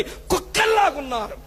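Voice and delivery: high scornful outburst; scornful shout. Real, not acted. Pastor denouncing dowry-greedy Christians, scornful shout. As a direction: spit out the insult.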